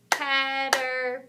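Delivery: "Caterpillar" slowly broken into four syllables; real slow. Shown as a demonstration. Teacher helping with a big long word, "Caterpillar" real slow. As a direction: say "Caterpillar" real slow, a clap per part. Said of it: "Let's say it real slow".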